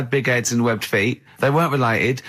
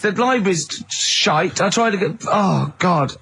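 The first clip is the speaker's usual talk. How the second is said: real annoyance; 5 semitones higher than usual. Real, not acted. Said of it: "I'm already annoyed".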